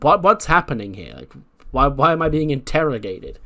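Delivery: mock flustered, demanding an explanation; bewildered protest. Acts out Dakota, confused, protesting.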